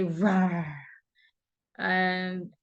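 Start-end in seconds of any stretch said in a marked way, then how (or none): 0.0-0.7 mock roar. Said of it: "for the tiger, he would say".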